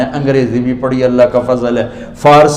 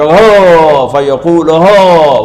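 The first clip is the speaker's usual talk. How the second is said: a louder cry of joy; joyful cry; 4 dB louder, much slower than usual. Shown as a demonstration. The saved soul cheers holding his paper, joyful shout. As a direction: call out hoo like a victor. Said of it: "وہ ایک نعرہ لگائے گا".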